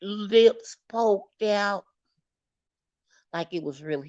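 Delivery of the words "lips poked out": pouting. Real, not acted. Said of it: "I'm looking at him with my eyes squinted".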